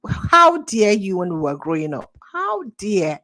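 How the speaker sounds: loud mock parental rebuke of "How dare you"; strict parent scolding a child, loud; scolding Nigerian parent. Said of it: "they talk like this for this Nigeria now".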